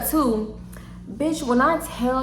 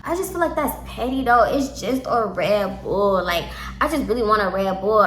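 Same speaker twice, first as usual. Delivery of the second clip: put-on drunk slurring. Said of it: "she is slow talking and slurring".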